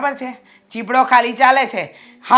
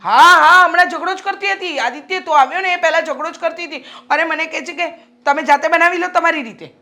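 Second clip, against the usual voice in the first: higher, biting sarcasm; mock agreement that twists the knife; sarcastic tattling to her son; 5 semitones higher than usual.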